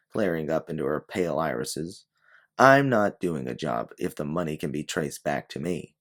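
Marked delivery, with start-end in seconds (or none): 2.6-6.0 firm. Acted. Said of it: "you switch your tone and face her".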